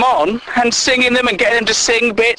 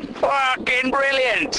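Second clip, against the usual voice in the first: sarcastic; 5 semitones higher, 6 dB quieter, much slower than usual. Acted.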